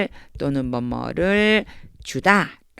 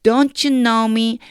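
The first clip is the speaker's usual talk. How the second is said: slow, louder, higher-pitched "Don't you know me"; reproach rather than question; 5 semitones higher, 5 dB louder, much slower than usual. Acted. Teacher as Jesus to Philip, drawn-out reproachful "Don't you know me". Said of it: "질문이라기보다는요".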